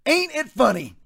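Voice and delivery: a touch of Southern twang on ain't; folksy Southern aside. Shown as a demonstration. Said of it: "Let me put it Southern for you".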